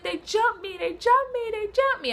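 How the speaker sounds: high, frantic repeating; panicked repeating. Retold or imitated. Telling her ex on the phone, high frantic panic. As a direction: blurt it out in high-pitched panic again and again. Panicked call to ex after fight.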